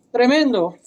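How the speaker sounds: normal talking voice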